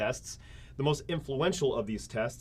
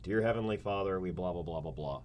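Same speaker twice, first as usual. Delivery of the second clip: mock prayer; 5 semitones lower, 3 dB quieter than usual. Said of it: "I'm gonna say a prayer".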